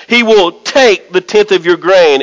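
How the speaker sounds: "take" leaned on and set apart; stress on TAKE. Shown as a demonstration. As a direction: make "take" stand out from the phrase. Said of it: "I'm gonna emphasize the word".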